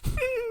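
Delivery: squeaky high laugh; high giggle. Real, not acted. Laughs at himself.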